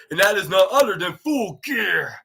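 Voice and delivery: bellowing the pay-per-view name like a ring announcer; mock big shout of the event name; hammed-up announcer shout. Retelling the challenge, he shouts the event name. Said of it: "he didn't say it like that".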